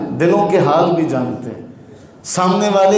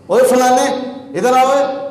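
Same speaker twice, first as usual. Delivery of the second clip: rude summons; 5 semitones higher than usual. Retold or imitated. Imitating a father rudely calling his son over. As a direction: bark for the son across the yard. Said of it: "گالی دے کر مخاطب کرتا".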